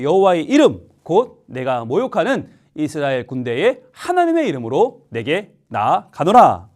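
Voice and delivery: slow, measured verse recitation; scripture reading. Real, not acted. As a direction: read the verse deliberately, phrase by phrase. Leads congregation reading verse aloud.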